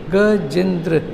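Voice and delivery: "गजेंद्र" with its syllables set apart; split into syllables. Shown as a demonstration. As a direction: say "गजेंद्र" piece by piece. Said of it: "तीन चार बार बोलो".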